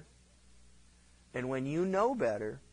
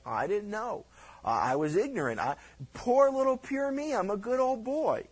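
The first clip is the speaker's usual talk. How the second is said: mock innocence; 5 semitones higher than usual. Mocking the falsely innocent.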